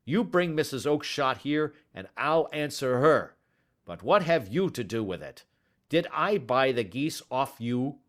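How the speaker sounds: furious loud rant; angry shouting. Acted. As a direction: berate him, fists shaking. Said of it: "he shouted".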